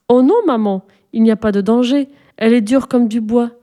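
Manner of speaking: lightly voiced girl, sure of herself; confident child. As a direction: brush off mother's warning. Sophie contradicting mother.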